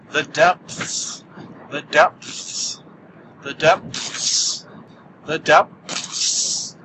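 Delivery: whispered echo of the depths. Pretend. Spooky echoed repeats.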